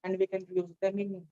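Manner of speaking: a nervous student made to project; talking loudly. Real, not acted. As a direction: speak up boldly to the whole room. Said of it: "I want you to talk loudly".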